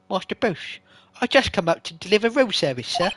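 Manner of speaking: a loose butler impression with an English lilt; the bellboy as a Batman butler, a lightly done English voice; Michael Caine. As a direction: play the loyal butler bringing room service. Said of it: "let's do a Michael Caine voice".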